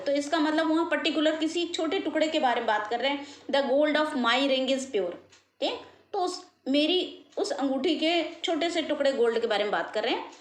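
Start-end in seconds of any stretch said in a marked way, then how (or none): 3.5-5.1 very slow, word by word for the class; slow example sentence. Shown as a demonstration. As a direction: read the example out slowly. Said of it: "पर अगर हम कह रहे हैं the gold". (धीरे धीरे उदाहरण पढ़ना)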